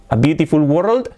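"world" with an open o, questioning rise; mispronounced world. Shown as a demonstration. Teacher testing a wrong version on learners, mispronounced. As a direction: say "world" wrongly, lifting the end. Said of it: "No. ¿Cómo se pronuncia esto?".

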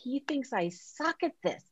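a hushed, panicked realization; freaking out. Retold or imitated. Realizing the boss's gift books mean he doubts her, hushed and panicked. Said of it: "I kinda started freaking out".

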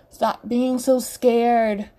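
slow, scolding rebuke; unapologetic, drawn-out reprimand; chastising. Acted. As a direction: drag out the scolding. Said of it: "Mataré chastises unapologetically".

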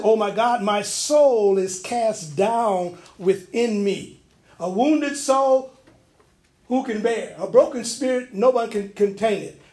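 scripture reading. Acted. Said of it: "Verse six says".

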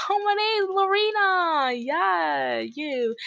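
very high, loud silly put-on voice; Lorena, weird prank-call voice. Retelling a prank call from supposed friend Lorena, high weird voice. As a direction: squeal it out in a mock falsetto. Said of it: "She put on, like, this weird voice".

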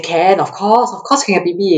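mildly hyped imitation of an encouraging coach; hype-up coach. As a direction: pump the athlete up with easy certainty. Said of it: "would hype you up".

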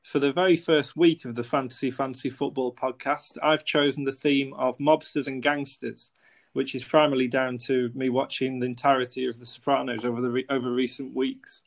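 scripted intro read. Acted.

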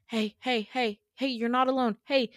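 pleading reassurance, acted; comforting. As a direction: try to reach a panicking friend. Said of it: "trying to comfort him".

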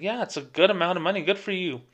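upbeat encouragement. Retold or imitated. Cheering on the customer's income.

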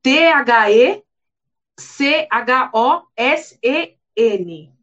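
each letter of "T H E C H O S E N" named slowly; spelling it out. Shown as a demonstration. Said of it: "vou soletrar pra vocês".

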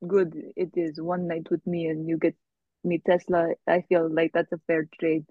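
fake Russian accent. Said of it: "Russian accent is fake".

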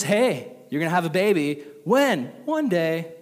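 a teasing God keeping secrets; lightly voiced playful God; breezy God. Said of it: "And then he says".

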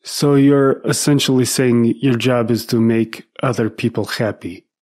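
mock incredulous question in a light Russian accent; a touch of Russian accent, skeptical. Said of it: "And he said".

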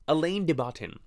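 English reading with a sounded final N; anglicized spelling pronunciation. Shown as a demonstration. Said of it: "it's spelled like".

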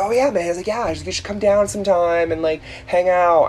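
lightly voiced Craig. Craig voiced in retold chat.

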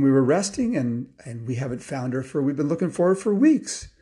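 lightly voiced, animated Santa; a hint of a hearty Santa explaining; jolly old Santa. Santa explains losing the deer, mildly jolly voice. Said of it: "jolly old Santa".

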